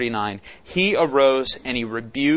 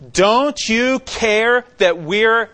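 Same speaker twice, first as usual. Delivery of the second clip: panicked plea; 7 semitones higher, 5 dB louder, much slower than usual. Retold or imitated. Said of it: "this is how they say it".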